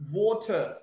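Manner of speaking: "water" with a crisp T in the middle; clear T. Shown as a demonstration. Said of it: "There's T actually".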